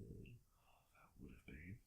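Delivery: slow breathy whisper. Pretend. Answering his friend in a slow playful whisper. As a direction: drop to a hushed, drawn-out whisper.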